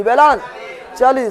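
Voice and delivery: वेलांचली slowly, broken as वेलां… चली; drawn-out drill. Shown as a demonstration. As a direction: stretch and split वेलांचली for the class to echo. Teacher splits term for class.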